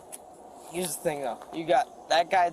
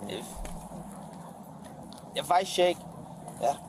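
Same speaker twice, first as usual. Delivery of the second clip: cold and shivering; shaky, freezing voice; 2 semitones lower than usual. Real, not acted. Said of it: "I'm freezing".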